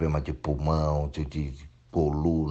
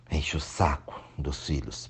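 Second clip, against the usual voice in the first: sudden unvoiced whisper, slower; whispered aside; 3 semitones lower, 5 dB quieter, slower than usual. Real, not acted. Speaker on clingy mothers, in a whisper. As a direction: drop to a whisper mid-rant.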